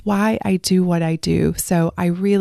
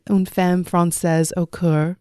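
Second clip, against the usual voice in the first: self-admittedly butchered French accent, read aloud; French accent attempt. Shown as a demonstration. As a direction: try the French accent and fumble it. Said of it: "I just butchered that French accent".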